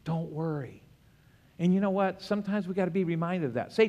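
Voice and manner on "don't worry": gentle reassurance. Acted. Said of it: "he says".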